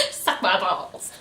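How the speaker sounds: a hint of Cartman, slow, laughing. Host likening the line to Cartman, mild slow Cartman impression. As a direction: do a quick Cartman. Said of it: "makes me think of Cartman from South Park".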